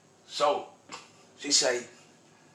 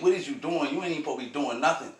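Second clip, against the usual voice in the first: urgent woman; 5 semitones higher, faster than usual. Retold or imitated. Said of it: "She said".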